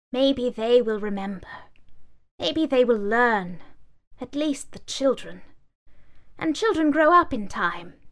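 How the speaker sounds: lightly voiced, resolute sage; wise old book. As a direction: speak it hopefully, firm. Book speaks.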